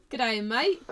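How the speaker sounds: easygoing mock Australian greeting, rising at the end; pretend Australian accent. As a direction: greet a mate in put-on Australian. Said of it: "I'll have to pretend to be Australian".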